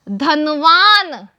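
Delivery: धनवान stretched out slowly; slow model word. Shown as a demonstration. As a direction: draw धनवान out syllable by syllable. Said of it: "मैं आपको पढ़ के दिखा रही हूँ". (धनवान धीरे-धीरे खींचकर)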